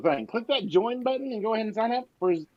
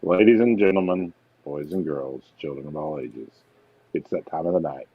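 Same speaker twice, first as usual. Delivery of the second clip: ringmaster. Acted. Announces the show's giveaway.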